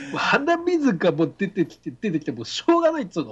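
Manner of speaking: speaking with a runny nose. Real, not acted. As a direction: talk through a drippy hay-fever nose. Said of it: "花粉症にやられちゃってるんですよ".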